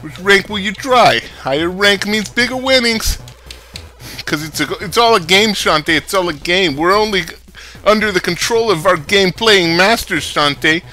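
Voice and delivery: lightly voiced New York club boss; pep talk in a put-on New York accent; a hint of East Coast city accent; New York-ish accent. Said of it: "Is this a Baltimore accent or a New York accent?".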